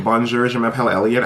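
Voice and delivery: French greeting in a plain American accent; unconverted American accent on French words. Shown as a demonstration. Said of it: "French people find the American accent".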